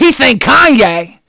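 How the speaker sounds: "He think Kanye" slow, he leaned on; mimicking the slip. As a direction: drag out "He think Kanye" without s. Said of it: "watch her correct herself".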